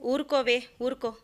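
gently calm a crying friend; consoling. Acted. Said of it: "అని ఓదార్చుతూ".

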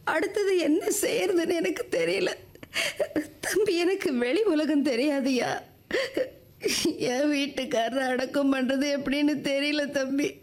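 tearful plea with small sobs. Acted. Widow begging a man to help bury her husband, tearful. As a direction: plead for help through held-back tears. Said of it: "நீங்க அழாதீங்கம்மா".

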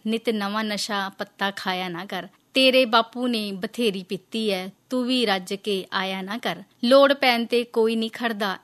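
slow, measured verse with falling line ends; poem recitation. Acted. Host reads poem of mother pleading with son, measured recitation. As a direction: recite unhurriedly, softening on the last line.

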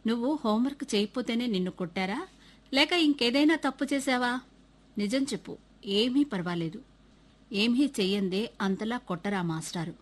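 a touch of reassurance, unhurried; gentle coaxing. Acted. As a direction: headmaster gently coaxing the boy to tell the truth. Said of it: "అనునయంగా మెల్లగా అడిగారు".

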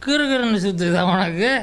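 mock her complaint back at her; taunting, sarcastic echo. Son mockingly echoes mother's complaint.

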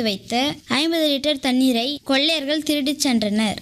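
formal, emphatic newsreader delivery; news read. Acted. Reading the future newspaper's water-robbery headlines to the village, formal news read.

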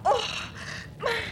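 sudden high, loud burst; loud exclamation. Acted. Woman remembering on the stairs, loud outburst. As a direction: blurt it out far too loudly. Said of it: "इतनी जोर से मत बोलो".

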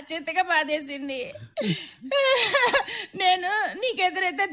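sobbing complaint. Acted. Wife sobbing about remarriage plot.

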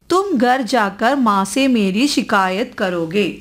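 put-on slow, careful reading aloud to children; teacher reading a Hindi story slowly. A narrator's reading. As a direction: read the story slowly to the class.

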